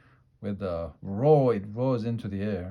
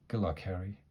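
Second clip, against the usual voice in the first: murmured; 5 dB quieter, faster than usual. Acted. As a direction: murmur it gently. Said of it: "he murmured".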